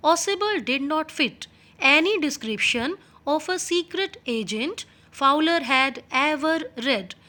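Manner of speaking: reading the English text slowly and clearly. Shown as a demonstration. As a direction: read each word out slowly for the class. Teacher reads English text aloud. (धीमी आवाज़ में पाठ पढ़ना)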